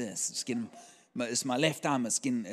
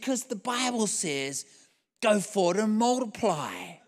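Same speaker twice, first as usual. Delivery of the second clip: declaiming scripture; 6 semitones higher than usual. Retold or imitated. Pastor answering the waiter from the Bible, high proclamation. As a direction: proclaim the verse in a raised pitch.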